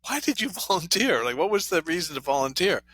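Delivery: high, laughing incredulous question; laughing disbelief. Retold or imitated. Baffled thought about volunteer.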